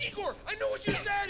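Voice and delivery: high, eager shout to Igor; bursting with pride, calling it out; excited call. Retold or imitated.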